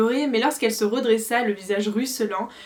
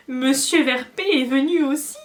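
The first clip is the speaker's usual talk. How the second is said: squeaking elf; 4 semitones higher, 5 dB louder than usual. A narrator's reading. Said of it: "couina Winky".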